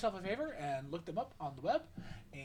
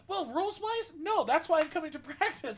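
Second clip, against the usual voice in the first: sheepish admission; 10 semitones higher, 5 dB louder than usual. Retold or imitated. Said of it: "And I'm like".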